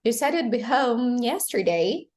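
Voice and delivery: "yesterday" emphasized at the end of the sentence; stress on final word. Shown as a demonstration. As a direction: lean on "yesterday" as the key word. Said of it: "emphasizing the final word".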